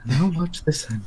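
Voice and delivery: Tigger quote. Retold or imitated. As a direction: bounce it up like Tigger. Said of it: "He's like".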